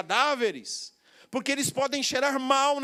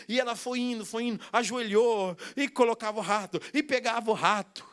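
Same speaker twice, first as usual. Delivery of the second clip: usual speaking voice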